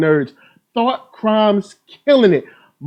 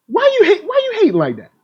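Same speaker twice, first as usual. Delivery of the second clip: teasing whine; 11 semitones higher, faster than usual. Pretend. Teasing a hater in chat.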